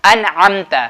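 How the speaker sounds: अनअमता with a clear, un-hummed N; careful अनअमता, distinct noon; izhar pronunciation. Shown as a demonstration. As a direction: sound the N of अनअमता without letting it ring in the nose. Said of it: "नाक में आवाज़ नहीं जानी".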